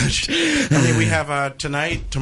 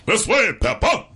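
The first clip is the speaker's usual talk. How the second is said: high, slow cartoon voice; cartoon call; 10 semitones higher, 3 dB louder, slower than usual. Comedian spoofs a children's cartoon, high drawn-out call. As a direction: call out high, stretching the words. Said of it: "a singer and Peppa Pig together".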